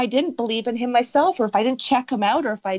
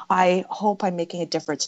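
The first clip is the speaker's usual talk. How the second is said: tentative, wishful statement; weak hope. Shown as a demonstration. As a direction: say it as only a hope, not owned. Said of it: "they need to hear it stronger".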